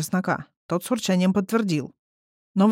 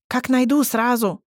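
higher, louder happy reply; joyful; 5 semitones higher, 3 dB louder, slower than usual. Acted. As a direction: answer with glee. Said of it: "обрадовалась Фыся".

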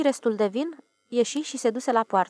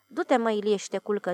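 gently. Acted. Watchman gently tells the upset Ilie to go sleep, tender. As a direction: ease the words out tenderly. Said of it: "zise cu blândețe paznicul".

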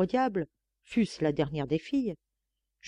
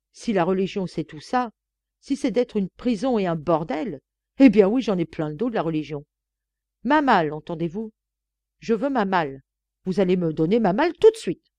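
breathless fury; 5 dB louder than usual. Acted. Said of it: "Et, trépidante, haletante, la gorge sèche".

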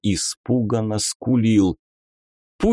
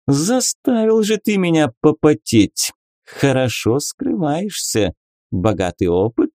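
higher, teasing lady; lady inquisitor voice; 5 semitones higher than usual. Acted. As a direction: play a coy, mocking lady. Beatrisa, playful inquisitor lady. (игривая дама-инквизитор)

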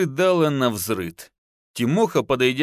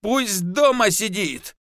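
higher, slow, a mild yell; yelling wife; 8 semitones higher, slower than usual. A narrator's reading. Wife pushing husband from the son, mild yell. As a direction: shove the order at him. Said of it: "заорала жена".

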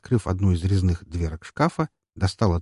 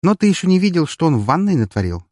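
choking with laughter; 10 semitones higher, 6 dB louder than usual. Acted. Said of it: "давясь от смеха".

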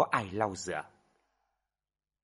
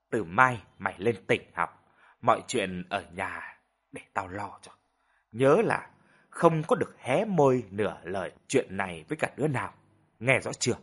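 softened voice; 2 semitones lower than usual. Acted. Mother settling her son's trouble, softened firm voice. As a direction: ease off the anger but stay firm. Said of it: "khi đã hả giận bà dịu giọng".

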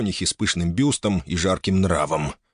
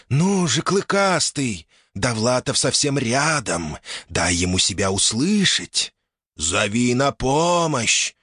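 urgent spirit; 4 semitones higher, slower than usual. Acted. Spirits urging orc.

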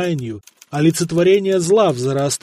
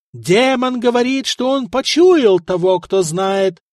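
sepulchral voice; 6 semitones higher than usual. A narrator's reading. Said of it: "загробным голосом проговорил Стефан".

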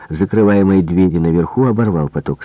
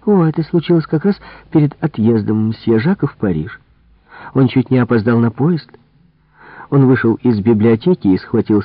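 higher, animated servant voice; gossiping maid; 4 semitones higher than usual. Acted. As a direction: dish about the master's temper. Maid relishes telling the quarrel.

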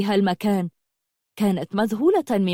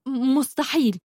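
angry; 4 semitones higher than usual. Acted. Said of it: "قالت بغضب".

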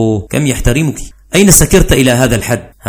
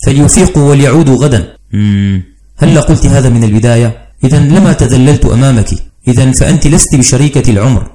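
loud angry marital shouting; shouting quarrel; 5 dB louder than usual. Acted. Spouses quarrel at night.

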